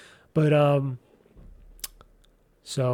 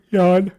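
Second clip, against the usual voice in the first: yawn; 2 semitones higher, 6 dB louder than usual. Real, not acted. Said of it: "I should do a pause when I yawn".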